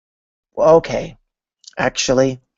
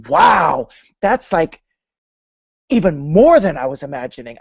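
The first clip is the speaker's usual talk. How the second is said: higher and louder, tumbling out fast; thrilled gush; 5 semitones higher, 4 dB louder than usual. Pretend. Shown the dream motorbike, gushing to the woman. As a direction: gush like you just saw your dream come true. Seeing the perfect bike, thrilled.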